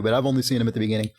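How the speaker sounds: ordinary talk, nothing marked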